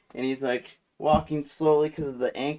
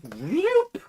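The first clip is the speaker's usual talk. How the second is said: quick mimicked whoosh of something flung; vocal sound effect for a throw; cartoonish whoop; imitated whoop. Imitates drawers being flung off.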